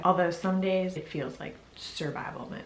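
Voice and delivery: short of breath, pregnant; talking while winded. Real, not acted. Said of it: "I'm already out of breath".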